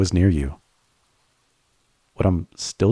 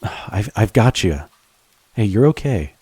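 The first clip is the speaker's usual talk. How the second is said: reassuring. Acted. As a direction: catch her and calm her down. Catches partner as she slips.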